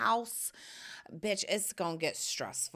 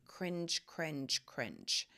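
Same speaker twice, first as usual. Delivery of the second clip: fading repeat; 5 semitones lower, 8 dB quieter, much slower than usual. Acted. Repeats word dropping away.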